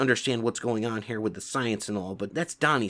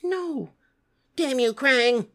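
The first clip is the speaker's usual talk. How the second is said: high furious cry; angry shout; 13 semitones higher, 5 dB louder, much slower than usual. Acted. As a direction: yell out in rage. Neutrinos shout at the screen.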